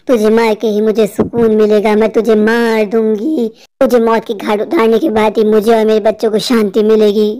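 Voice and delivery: menacing witch, stretching out the threat; vengeful witch. Acted. Witch returns, vows to kill.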